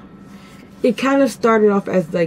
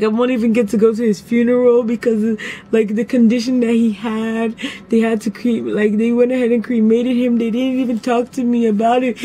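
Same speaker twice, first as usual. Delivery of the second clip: mock tearful; 3 semitones higher than usual. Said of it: "I was like".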